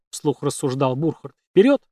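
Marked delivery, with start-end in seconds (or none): 1.5-1.8 high, loud call to move on; rallying shout. Acted. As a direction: snap the group into motion with a loud shout. Burchard urges the group on.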